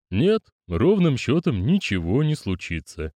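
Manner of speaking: slow, calm reassurance; old master reassures Mokrest, slow and calm; reassuring. Acted. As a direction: settle his nerves gently. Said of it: "заверил его почтенный мастер".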